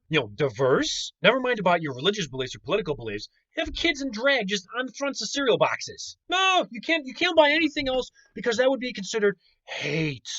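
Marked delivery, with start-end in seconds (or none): 3.6-10.3 higher, sneering mock voice; hammed-up sarcastic parody; mocking liberal voice. Mocking imagined liberal cereal rules.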